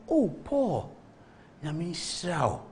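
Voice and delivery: soft, slow old man's blessing, imitated; softly drawn-out, sincere blessing; heartfelt blessing. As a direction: retell an elder's blessing gently, from the heart. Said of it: "from his heart".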